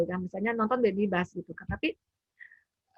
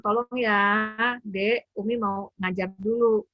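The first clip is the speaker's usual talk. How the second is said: gentle request; slower than usual. Retold or imitated. Mother asking her child to wait while she teaches, gently. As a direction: ask the little one kindly. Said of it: "saya suka bilang".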